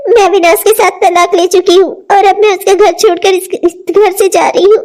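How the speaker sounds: speaking through sobs; crying words. Acted. Wife leaving home, speaking through tears. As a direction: sob out the goodbye to the house. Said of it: "मैं रो रही हूँ".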